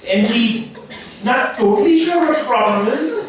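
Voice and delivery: a lightly hammed-up Indian doctor giving a diagnosis; Indian doctor accent. Comic playing an Indian doctor explaining test results to a patient. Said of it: "Indian doctors".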